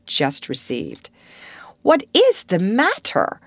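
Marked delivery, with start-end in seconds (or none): 1.8-3.4 high, loud question; eager cry. Acted. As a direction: call out at once, all curious. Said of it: "cried two or three voices at once".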